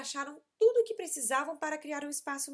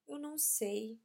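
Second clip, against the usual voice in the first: sad voice; 3 dB quieter than usual. Acted. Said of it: "disse Tom com uma voz triste".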